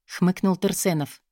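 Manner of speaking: usual speaking voice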